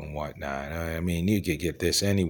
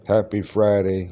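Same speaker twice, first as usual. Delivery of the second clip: drawn-out greeting; 3 semitones higher, 6 dB louder than usual. Real, not acted. Opening greeting to viewers.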